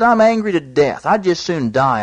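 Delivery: hammed-up sulking prophet answering God; angry Jonah.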